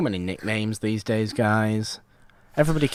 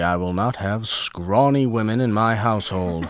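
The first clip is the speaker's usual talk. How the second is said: a lightly voiced old-timey gentleman; 5 dB louder than usual. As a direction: put on a mild period-film accent. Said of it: "I like doing a weird impression of it".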